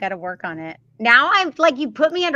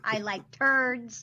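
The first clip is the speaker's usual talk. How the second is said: put-on baby talk; 5 dB quieter, much slower than usual. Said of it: "I sound like I'm talking to a little baby".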